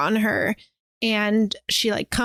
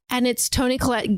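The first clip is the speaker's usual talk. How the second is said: ordinary talk, nothing marked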